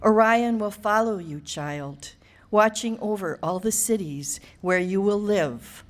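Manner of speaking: measured, deliberate poem reading with spacious pauses; poetry reading. Acted. Poet reading to an audience for her granddaughter Sylvie, measured recital. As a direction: read it as verse, phrase by phrase.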